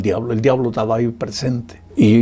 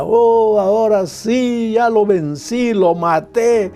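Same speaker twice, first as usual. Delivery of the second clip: gloating devil; 7 semitones higher than usual. Retold or imitated. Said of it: "dio la gran carcajada".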